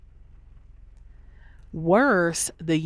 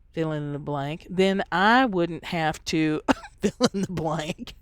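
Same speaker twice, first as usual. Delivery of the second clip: mock blaming rant. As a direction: play the whiny blamer pointing fingers. Acted blaming quarrel.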